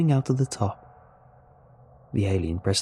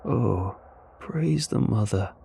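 slow, elated relief; understated, slow rejoicing; much slower than usual. Acted. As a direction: draw it out with mild elation. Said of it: "sounding elated".

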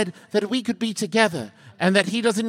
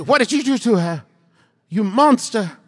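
accusing fox voice; 4 semitones higher than usual. Acted.

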